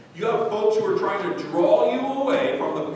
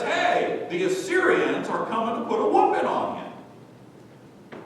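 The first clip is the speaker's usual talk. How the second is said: warning God; 6 semitones higher than usual. Acted. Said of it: "God over and over says".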